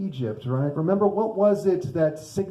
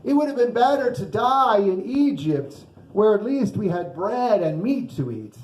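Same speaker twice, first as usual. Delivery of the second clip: hammed-up lament, higher at the start; melodramatic complaint; 4 semitones higher than usual. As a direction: complain with mock high drama. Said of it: "they're a bit melodramatic in their complaints".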